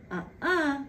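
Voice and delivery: put-on squabbling child refusing; a child's stubborn uh-uh; kid saying no. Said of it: "My two youngest like to do the whole uh-uh".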